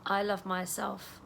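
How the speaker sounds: calm self-talk while tapping; gentle affirmation. Shown as a demonstration. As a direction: say it tenderly to yourself. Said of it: "I want you to say".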